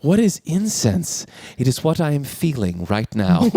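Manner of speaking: slow, lofty reading; lightly mock-grand quote. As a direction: lightly imitate his lofty tone. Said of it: "And she goes".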